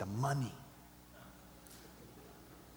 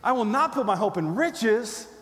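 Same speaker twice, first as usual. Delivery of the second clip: loud, higher-pitched defiant declaration; emphatic, forceful refusal; with attitude; 6 semitones higher, 8 dB louder than usual. Shown as a demonstration. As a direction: punch it out with scornful attitude. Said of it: "say it with some attitude".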